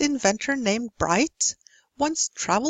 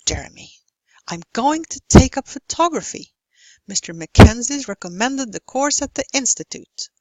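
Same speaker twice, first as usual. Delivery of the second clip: dialogue read with content words like college and photography punched; strong beat and rhythm. Shown as a demonstration. Teacher models Diana and Jeremy's dialogue, strong beat and rhythm. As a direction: model reading, beat on stressed syllables like TOG in photography. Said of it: "read with strong beat and rhythm".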